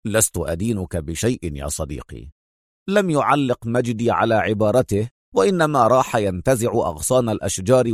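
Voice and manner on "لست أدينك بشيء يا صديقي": low, soft reassurance; calm, smiling. A narrator's reading. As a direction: say it softly and low to a friend. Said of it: "في هدوء وهو يقول".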